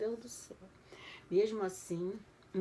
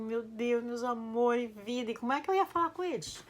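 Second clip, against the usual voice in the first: retold crying; 5 semitones higher than usual. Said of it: "Eu chorava, mas eu chorava".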